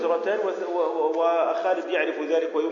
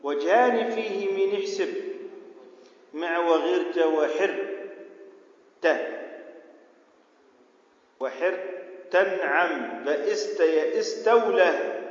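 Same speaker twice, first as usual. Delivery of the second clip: verse recitation; slower than usual. Shown as a demonstration. Reads the verse aloud for the class.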